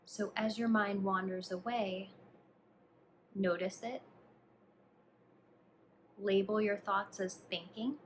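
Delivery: calm, hushed instructions, leaving space to breathe; guided meditation. Acted. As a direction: guide the listener gently through a body scan, unhurried. Leads a body scan meditation.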